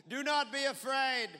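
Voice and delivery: put-on loud, high, slow Indian accent; Indian-accented Moses. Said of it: "Apparently Moses was Indian".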